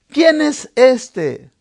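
drawn out, every word weighed; slow it right down and lean on quién; asking ¿Quién es este? slowly, stressing quién; slow, emphatic question. Shown as a demonstration.

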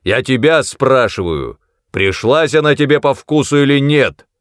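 loud, high angry bark. Acted. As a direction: snap the question. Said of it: "рявкнул злым голосом". (злой рявк)

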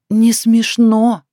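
slow stern «Не смешно», high and loud; not funny. A narrator's reading. Wife flatly refusing to find it funny, slow and stern. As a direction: spell out «Не смешно» slowly and firmly. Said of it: "ответила жена".

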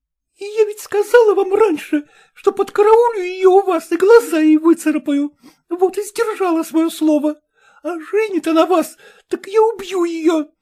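jealous threat. Acted. Masseuse threatening the rival, furious. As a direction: swear to scratch her eyes out.

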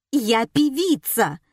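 high slow indignant squeal. Acted. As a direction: squeal it in outrage. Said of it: "взвизгнула Светлана". (взвизгнув)

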